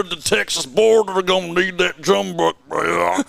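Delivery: hammy cowboy voice, high and drawn out; mock Australian accent. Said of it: "More Australian".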